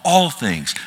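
"All things" with a firm weight on "All"; emphasis on ALL. Shown as a demonstration. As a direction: set "All" apart and land hard on it. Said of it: "I emphasize certain words".

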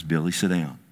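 quiet, calm order from the grandmother. Retold or imitated. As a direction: settle the boy down, softly. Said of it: "not just as calm as can be".

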